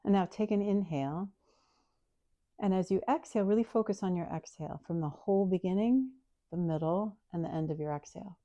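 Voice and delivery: calm, unhurried breath guidance; soothing guided-breathing voice. Acted. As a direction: lead the breath gently.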